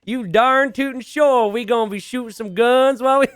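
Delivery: put-on over-the-top country redneck accent. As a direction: go full cartoon backwoods redneck accent. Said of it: "how is that my best accent?".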